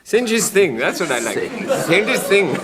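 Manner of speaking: put-on high, lilting Indian accent; playful Indian accent, repeated. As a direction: chirp it in a Goon-show Indian accent. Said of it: "Two Hindus played by Peter and Spike".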